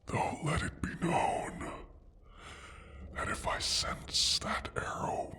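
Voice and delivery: soft whispered threat; menacing whisper. Acted. Dragon warning the human about the arrow, whispered menace. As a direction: hush it to a quiet warning.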